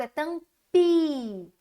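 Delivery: tampi bem devagar, sílaba por sílaba; slow syllables. Shown as a demonstration. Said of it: "Eu vou usar a letrinha I". (tampi silabado lento)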